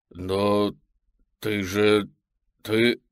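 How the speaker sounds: stunned halting stammer. Acted. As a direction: stammer in shock. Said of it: "заикаюсь я".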